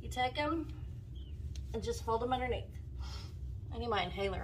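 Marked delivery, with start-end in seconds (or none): 0.0-2.6 short of breath while talking; wheezing between words; wheezy voice. Real, not acted. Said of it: "I'm wheezing".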